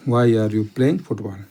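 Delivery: very slow, word by word; slow dictation. Shown as a demonstration. Teacher dictating the answer to students, very slow. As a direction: spell it out slowly for the class to copy. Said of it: "teacher reads final answer".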